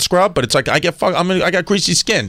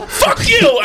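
mock yell; 3 dB louder than usual. Imitating angry girlfriend.

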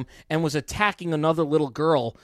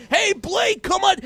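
much higher, louder cheer; crowd cheer; 12 semitones higher, 3 dB louder, slower than usual. Retold or imitated. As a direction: whoop for Blake like the stands. Imitating crowd cheering for Blake.

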